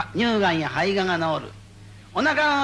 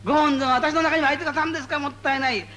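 higher, awed voice rising to a joyful cry of thanks; grateful worshipper; 8 semitones higher than usual. Acted. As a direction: play the believer overwhelmed with gratitude. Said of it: "で、拝む方は".

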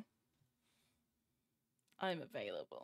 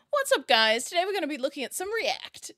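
lightly hammed-up vlogger greeting, higher at first; mock YouTuber intro; 6 semitones higher than usual. Streamer joking about her own YouTube video, mock YouTuber intro. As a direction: put on a bit of a YouTube host opener. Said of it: "That'd be my YouTube video".

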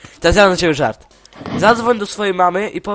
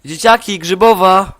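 mock call to the kids, pitched up; half-shouted joke punchline, louder at the end; udawany krzyk; 3 semitones higher, 4 dB louder than usual. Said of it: "i krzyczy". (udawane wołanie dzieciaków)

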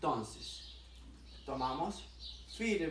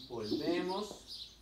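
drawn-out count; much slower than usual. Shown as a demonstration. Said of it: "coach paces the movement".

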